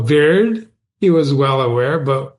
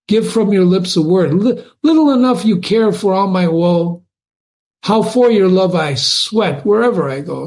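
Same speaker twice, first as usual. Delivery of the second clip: higher, sweet pleading serenade; wooing lover; 4 semitones higher than usual. Acted. Absalom wooing Allison at her window, pleading. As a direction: woo her under the window, hammed-up. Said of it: "Softly, with half a sound".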